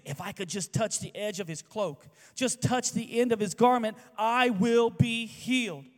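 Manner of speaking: high, loud, desperate inner plea, slowing at the end; pleading woman's thoughts. Acted. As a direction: reach out in hope, voice rising. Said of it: "she reaches out and thinks".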